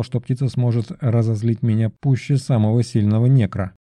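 ordinary delivery

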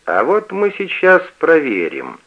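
slow, pushing the words out loud; straining shout. A narrator's reading. Father strains his voice at his son, shouting. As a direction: bellow it from the chest. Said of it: "надсаживается отец".

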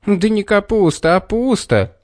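explaining. A narrator's reading. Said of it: "объяснил Петр".

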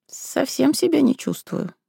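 a touch woozy; weak. Acted. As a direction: barely push the words out. Weak after anaesthesia.

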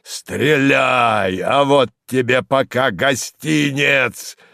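slow, jeering defiance; mocking old man. A narrator's reading. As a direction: taunt him with grim glee. Kharlov mocks from roof.

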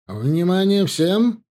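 slow, high loud command; commanding call. A narrator's reading. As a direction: call the whole field to attention. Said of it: "скомандовал он".

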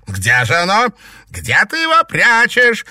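very high, loud shriek; screaming demand. A narrator's reading. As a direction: scream the question. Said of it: "прокричала Гертруда".

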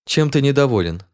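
understated wonder; sincere surprise. A narrator's reading. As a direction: ask in honest, mild astonishment. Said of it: "искренне удивилась принцесса".

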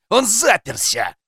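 high, slow, frustrated yell; shouting. A narrator's reading. Policeman announcing the man locked himself in, shouting. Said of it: "прокричал полицейский".

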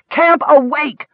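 roared. A narrator's reading. Captain roaring his sleeping men awake. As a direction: bellow to wake the whole camp. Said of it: "roared the captain".

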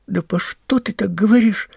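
put-on high-pitched, indignant boy; indignant protest. A narrator's reading. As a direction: protest hotly, pitched well up. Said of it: "возмущался Пашка". (возмущённо, высоким голосом)

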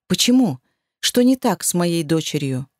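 insistent, falling demand. Acted. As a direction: press hard for an answer. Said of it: "требовательно спросила". (требовательный тон)

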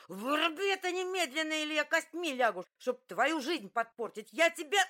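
very high, loud raging yell; screaming at him to switch it off; furious shout. Acted.

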